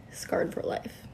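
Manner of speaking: slow, hushed whisper. Real, not acted. Nurse confides to viewers in a stunned whisper. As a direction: whisper it like a shocked confession.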